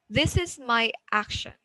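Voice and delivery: "This is my action" with a rise, then a drop to finish; rising-falling intonation. Shown as a demonstration. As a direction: start normal, go high, then fall at the end of "This is my action". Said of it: "moves from normal to high and then goes".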